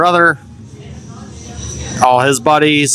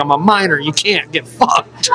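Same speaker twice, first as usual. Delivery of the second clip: laughing taunt; 7 semitones higher than usual. Retold or imitated.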